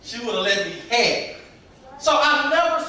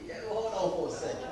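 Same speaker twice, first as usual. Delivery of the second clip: laughing; 4 semitones lower, 12 dB quieter than usual. Retold or imitated. Retelling catching himself with students.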